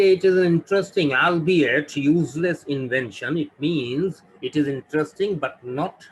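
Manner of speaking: teacher slows right down for the example; slow emphatic example. Shown as a demonstration. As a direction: spell out the sentence slowly for learners. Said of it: "if I say".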